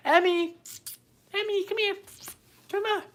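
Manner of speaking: high, loud call across the room; calling the dog. Real, not acted. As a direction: call the dog to come over.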